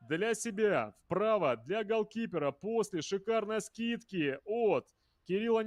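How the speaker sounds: high, rapid excited recap; excited replay. Real, not acted. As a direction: ride the thrill of the goal. (взволнованный пересказ гола)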